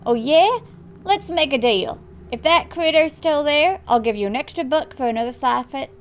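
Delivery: loud, hammed-up bad Australian accent; playful dealmaking in faked Australian; Australian dad. Dad making a bet with son, playful bad Australian accent. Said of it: "so bad at Australian accent".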